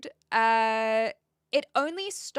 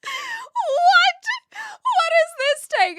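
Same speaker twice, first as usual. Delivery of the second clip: incredulous laugh; 12 dB louder, much slower than usual. Real, not acted. Reacts to cheeky chat message.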